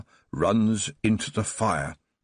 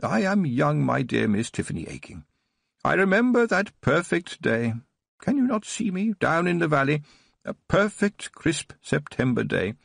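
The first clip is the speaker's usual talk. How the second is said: put-on higher, bright-eyed eager old man reliving childhood; boyish enthusiasm; 4 semitones higher than usual. Old Baron tells Tiffany his childhood memory, eager and boyish. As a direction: tell it like a thrilled boy. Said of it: "as enthusiastic as a boy".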